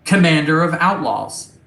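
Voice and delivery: lightly voiced computer reading out data; a hint of stilted machine delivery; Ava, robotic ship intelligence. Ava answers the crew about Sheriff Law, lightly robotic.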